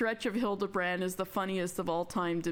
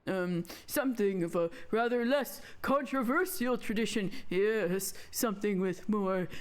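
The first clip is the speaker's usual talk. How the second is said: lightly voiced old mage, pondering; hoarse old man. Old mage picking a less controversial spell, musing. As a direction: muse like an old man choosing his words. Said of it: "sound like a different kind of old man".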